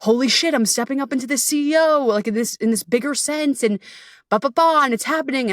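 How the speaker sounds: high, thrilled rush of words; bubbling over about stepping up as CEO; excited inner voice. Retold or imitated. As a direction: gush like you just got promoted. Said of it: "part of me is so excited".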